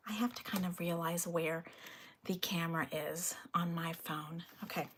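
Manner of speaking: whispered aside to herself; whispering. Real, not acted. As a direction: whisper it under your breath.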